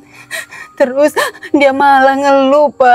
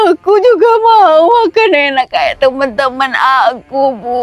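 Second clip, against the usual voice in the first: crying. Acted. Girl complains to mother, crying.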